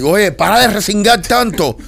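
mock exasperated reprimand; retold scolding. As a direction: act out snapping at a kicking child. Retells scolding a kicking child.

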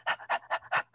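quick dog-like panting. Shown as a demonstration. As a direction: pant fast like a dog. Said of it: "pant again".

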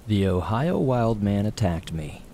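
slow, deliberate title read; title announcement. A narrator's reading. Reads story title.

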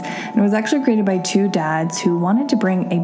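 brisk, upbeat sponsor read over music; host pitching vitamins to her podcast listeners, upbeat ad read. Acted. Podcast host selling a sponsor to listeners, cheerful ad read.

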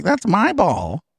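put-on a spoiled kid clutching his ball; whiny child. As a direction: pout it like a sulking child whose toy was taken. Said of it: "they were like".

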